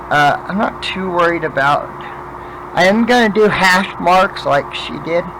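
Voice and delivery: talking without dentures in; toothless. Real, not acted. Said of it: "I don't have my teeth in today".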